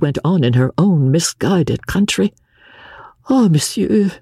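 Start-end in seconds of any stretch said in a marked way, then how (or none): 3.3-4.1 put-on higher, lightly French-accented countess; French lady crying out in broken English. A narrator's reading. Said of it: "she said in broken English".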